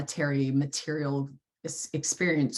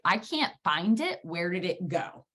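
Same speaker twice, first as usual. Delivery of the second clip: baffled; 4 semitones higher than usual. Retold or imitated. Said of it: "it was like".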